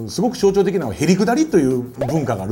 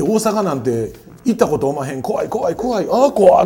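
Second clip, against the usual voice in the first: mock fright. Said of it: "お年を召した方に".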